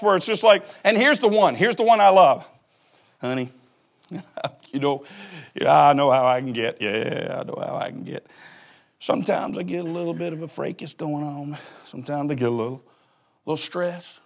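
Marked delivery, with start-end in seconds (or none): 3.2-14.2 a touch of humble tenderness; sweet confession. Retold or imitated. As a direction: sweet-talk your spouse. Confessing to spouse.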